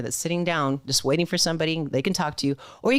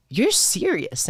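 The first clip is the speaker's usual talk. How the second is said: surprised; 8 semitones higher, much slower than usual. Retold or imitated. Manager surprised she showed up.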